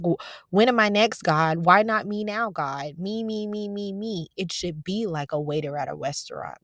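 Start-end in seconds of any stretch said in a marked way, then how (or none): 0.0-4.3 mock whiny impatience; a hint of a spoiled child; impatient demanding. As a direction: act out a needy, pushy ask. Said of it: "in an attitude like".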